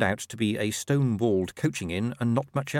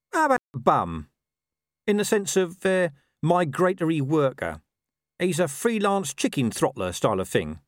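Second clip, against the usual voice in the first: higher-pitched talking dog, quibbling; Gaspode, suggesting; 7 semitones higher, 4 dB louder than usual. Acted. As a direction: offer it as a wheedling mutt. Dog proposes a name.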